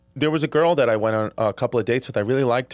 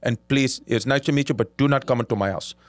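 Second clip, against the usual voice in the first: imitated Indian accent. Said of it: "By the way, great Indian accent".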